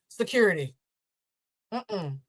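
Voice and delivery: entitled Karen calling security. Pretend. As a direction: play the offended Karen. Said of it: "an even bigger Karen than you".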